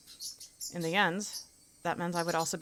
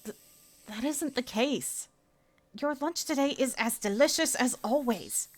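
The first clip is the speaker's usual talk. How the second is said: bright high schoolgirl praising lunch through clenched politeness; girl character voice; 8 semitones higher than usual. Acted. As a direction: voice a girl faking enthusiasm.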